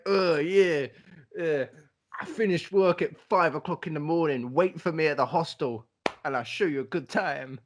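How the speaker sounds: lightly voiced laddish bloke; a hint of a friendly London lad; blokey voice. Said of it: "keep up her blokey voice".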